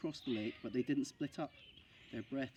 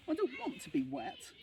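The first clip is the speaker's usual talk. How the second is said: much higher, whining wail; sulky small child near tears; boy keeps wailing about being wet. A narrator's reading. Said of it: "he wailed".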